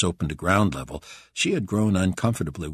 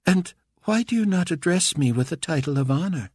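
higher, offended tyrant; indignant ruler; 11 semitones higher than usual. A narrator's reading. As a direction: demand respect haughtily. Carpathia indignant.

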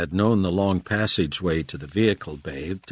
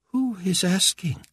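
higher, slow imperious question; imperious demand; 13 semitones higher than usual. A narrator's reading. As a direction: demand it slowly, high. Carpathia demands.

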